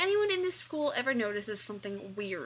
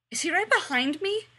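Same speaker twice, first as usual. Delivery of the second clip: frightened whisper-question; 8 semitones higher, 9 dB louder than usual. A narrator's reading. Cordelia frozen in fear.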